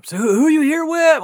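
high-pitched imitation of a puzzled lady; confused lady. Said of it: "we're, we're confused".

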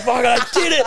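retold triumphant yell. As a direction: celebrate like you just won. Triumph walking out of customs.

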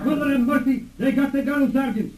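high, strained shock; shocked dismay. Acted. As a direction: cry out in dismay. Girl captured, shocked.

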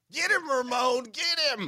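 loud cheering shout. Real, not acted. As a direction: egg him on, yelling. Egging on a co-host.

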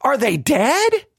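slow, drawn-out disbelieving question; incredulous. Retold or imitated. Listener reacting to a silent church crowd, incredulous. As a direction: ask it slowly, in disbelief. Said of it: "you listen to the crowd and you're like".

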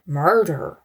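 imitating an offhand, unbothered shrug; mock-casual suspect brushing off a murder accusation; casual nonchalance. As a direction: say it like murder is no big deal, slow and soft. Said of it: "just casual and nonchalant he was? Soft-spoken".

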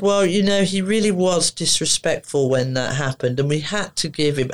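a hint of a condescending official, lightly voiced; patronising. School staff lecturing the mum, a touch patronising. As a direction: talk down to her like a child, mildly. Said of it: "the whole voice was so bloody patronising".

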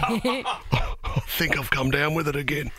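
slow, hammed-up poorly voice; mock sick voice. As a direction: drag it out like you're ill. Fake sick patient voice.

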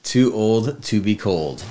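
slow, drawn-out echo of the phrase; slow savoring repeat. Shown as a demonstration. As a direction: savor it like a song title. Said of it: "a song from the eighties".

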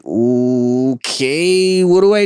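lost worker asking for help; mock panicked worker; helpless bewilderment. Helpless worker under schedule pressure.

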